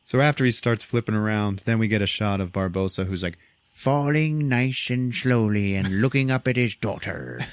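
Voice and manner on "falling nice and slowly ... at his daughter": mock slow motion. Acts out slow-motion fall.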